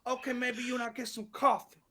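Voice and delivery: high but soft proposition; coy comic host impersonation; Steve Harvey. Acted. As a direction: drop the volume, keep the voice up. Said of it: "a little bit of the Steve Harvey".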